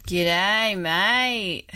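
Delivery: put-on playful Aussie greeting in an Australian accent. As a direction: throw on a cheery Australian accent. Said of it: "that's my Australian accent".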